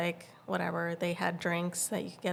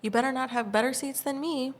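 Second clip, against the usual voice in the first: higher-pitched snotty retold warning; 6 semitones higher than usual. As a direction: mimic her, a bit snippy and high. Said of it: "She was just, like, snotty".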